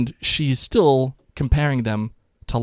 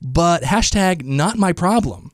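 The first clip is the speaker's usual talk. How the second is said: high, dismissive Southern matron; haughty high lady voice; 7 semitones higher than usual. Retold or imitated. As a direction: brush them off, much higher. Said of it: "they keep saying".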